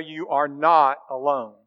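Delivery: slow, gentle reassurance; reassuring. Acted. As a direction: lean in and comfort him. God reassures Elijah, sermon close.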